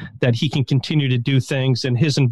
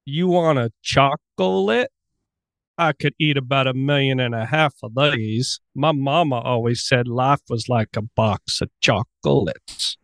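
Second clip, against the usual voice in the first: lightly voiced Gump impression, easy does it; Forrest Gump accent. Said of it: "go. I hope you've been practicing".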